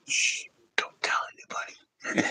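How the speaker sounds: secretive shushed whisper; shush, then whisper it like a secret. Real, not acted. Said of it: "I'm whispering to the other dude".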